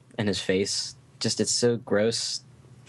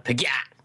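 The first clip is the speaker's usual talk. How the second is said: death scream; 2 semitones higher than usual. Shown as a demonstration. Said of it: "death scream of a Tontara".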